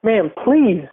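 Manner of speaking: a touch of fake tears; teary plea. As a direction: play him close to tears, hammed-up. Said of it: "he starts to tear in his eye".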